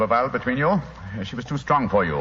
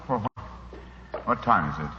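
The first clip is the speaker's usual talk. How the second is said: groggy waking; 3 dB quieter, slower than usual. Acted. Holmes waking from drugged sleep.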